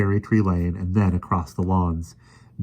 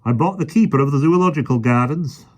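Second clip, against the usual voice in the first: hissed; 7 semitones higher, 6 dB louder than usual. A narrator's reading. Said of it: "the park keeper hissed".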